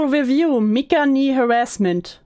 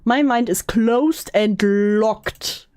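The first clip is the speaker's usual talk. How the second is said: mock firm; slower than usual. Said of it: "I decided to close my mind".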